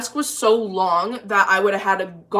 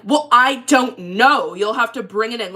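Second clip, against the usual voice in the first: loud customer-service brush-off; 2 semitones higher, 5 dB louder than usual. Retold or imitated. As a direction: mimic the rude shop guy loudly. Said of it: "literally how loud I'm being right now".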